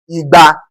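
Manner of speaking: "Igba" on a level middle tone; tone demonstration. Shown as a demonstration. Teacher showing only tone changes, tone demonstration. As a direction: keep "Igba" even to its end. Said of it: "it is only the tone that will change".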